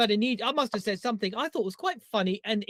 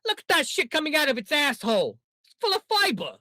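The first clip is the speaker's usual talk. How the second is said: put-on higher-pitched New York gangster accent; Joe Pesci; 4 semitones higher than usual. Host continuing the dog food commercial, New York gangster accent. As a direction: crude New York wiseguy sales pitch. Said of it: "do it in that accent".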